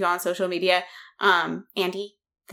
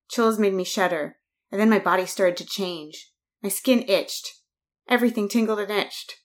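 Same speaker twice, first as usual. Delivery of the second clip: put-on reading a spooky kids' story aloud; story narration. Host reads a creepy passage to listeners, light story narration. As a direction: narrate the transformation steadily.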